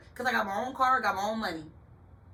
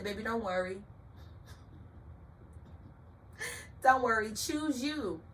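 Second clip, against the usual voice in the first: tender reassurance; 2 semitones higher, 4 dB quieter than usual. Retold or imitated. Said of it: "God said".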